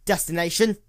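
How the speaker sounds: nervous blurted question, a touch pushed; stammering. A narrator's reading. Clerk stammering at the cloaked mare, nervous. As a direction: force the word out through nerves. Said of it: "before stammering out".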